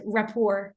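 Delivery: rapport with a silent final T; "rapport" said slowly as ra-POR, no T; French-style pronunciation. Shown as a demonstration. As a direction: say rapport the French way, ending on an open "or" sound. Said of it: "we pronounce it in the French way".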